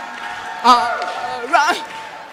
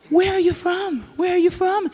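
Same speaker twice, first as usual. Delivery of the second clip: nosy asker; 4 semitones higher, 8 dB quieter than usual. Retold or imitated. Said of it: "They always go".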